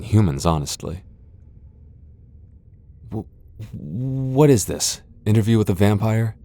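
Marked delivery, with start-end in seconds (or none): 3.1-6.4 indignant surprise. Acted. Vampire balking at the hunter's interrogation. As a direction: stretch it out in disbelief.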